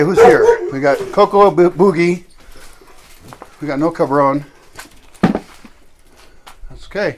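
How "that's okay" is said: slow soft whisper. Real, not acted. Soothing aside to dog.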